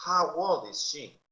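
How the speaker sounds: put-on slow How old is she with How stressed; slow model. Shown as a demonstration. Teacher modelling for students, slow. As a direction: model it slowly for learners. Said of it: "model slow".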